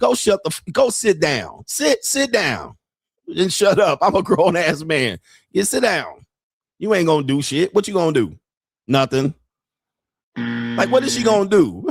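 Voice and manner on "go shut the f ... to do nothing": stern, scolding adult man's voice. Acting out what he would say to his mama at a cookout: imitating telling off his mama. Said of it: "I would just be like this".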